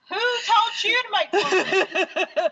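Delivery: high, slow indignant yell; indignant shout. Retold or imitated. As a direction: demand it, outraged. Indignant quote at restaurant.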